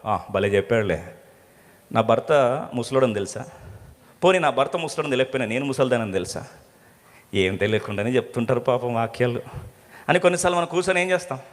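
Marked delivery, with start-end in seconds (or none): 0.1-6.5 mocking inner voice. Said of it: "లోపల మాత్రం ఎగతాళి నవ్వు".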